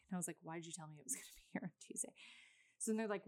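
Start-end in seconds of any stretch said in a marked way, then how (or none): 0.4-2.1 hushed, fast, disbelieving whisper; incredulous whisper. Retold or imitated. To the delivery company on the phone, an incredulous whisper. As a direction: whisper it fast as if you can't believe them.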